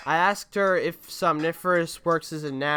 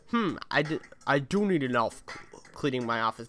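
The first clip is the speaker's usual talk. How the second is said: hammy mock Robot Devil; a hint of the cartoon Robot Devil; 3 semitones lower, 4 dB quieter than usual. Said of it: "I was doing the Robot Devil voice".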